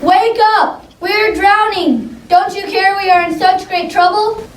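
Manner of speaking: high, desperate plea, slowing on drowning; frightened pleading. A narrator's reading. Disciple begging Jesus to wake in the storm, high and desperate. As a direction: beg him to wake up. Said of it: "cried one of the men".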